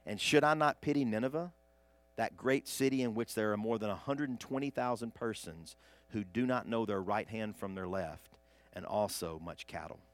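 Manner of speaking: measured, solemn Bible reading; scripture reading. Acted. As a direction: read the passage to the congregation. Reads the Jonah scripture aloud.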